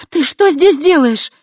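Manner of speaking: high, loud and slow startled demand; shocked high shout at the intruder; startled cry. Acted. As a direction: jolt back and cry out at him. Startled girl wakes to find him.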